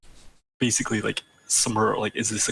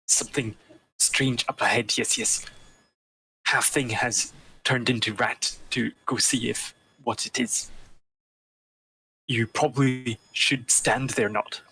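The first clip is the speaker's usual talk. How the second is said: Fleabite's telepathic voice. Acted. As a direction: send each phrase haltingly by thought. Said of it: "and psychically say".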